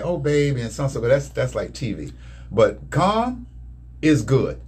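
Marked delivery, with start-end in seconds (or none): 0.0-1.0 lightly voiced syrupy coo; a hint of TV sweetness; mock sugary "oh baby". Husband mocking his wife's sugary TV endearments. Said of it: "you don't have to be like".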